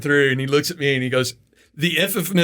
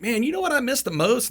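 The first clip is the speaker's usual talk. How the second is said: joking Marine voice; 10 semitones higher than usual. Retold or imitated. Marine setting up his joke.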